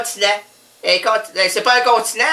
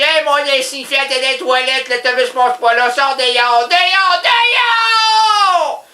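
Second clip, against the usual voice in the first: yelling at the cat; 3 semitones higher, slower than usual. Retold or imitated. Owner yelling at the confused cat to get out. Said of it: "Puis je dis".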